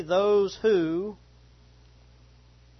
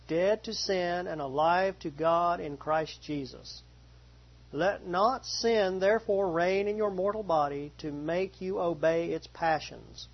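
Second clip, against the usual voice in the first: scripture reading. Acted. Pastor reading Romans to the congregation, measured reading voice. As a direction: read the passage to the congregation, measured.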